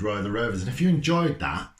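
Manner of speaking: plain reading voice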